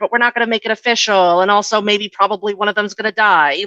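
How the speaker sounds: mock big-publisher voice. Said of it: "They're like".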